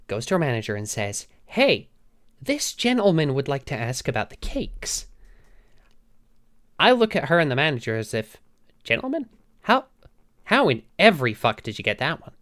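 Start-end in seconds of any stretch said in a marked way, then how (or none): 1.5-5.1 a bright "Hey" to open, then a lightly voiced, chirpy shop assistant; sweet shop assistant. Shop assistant calls her manager over, chirpy. 8.8-12.3 in total disbelief; incredulous. Retold or imitated. Misgendered streamer turns on the cashier, incredulous. Her stunned reaction to being misgendered.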